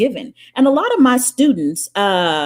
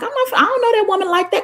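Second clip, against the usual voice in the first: high indignant protest; 12 semitones higher, faster than usual. Retold or imitated. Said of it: "And I was like".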